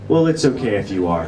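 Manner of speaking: a hint of a kind, earnest dad accepting his son; sincere dad. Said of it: "genuinely, sincerely turned to me and said".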